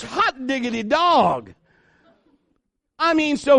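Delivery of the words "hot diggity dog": slow, laughing joyful exclaim; delighted exclaim. Acted. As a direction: savor the delight. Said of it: "looks at his skin and goes".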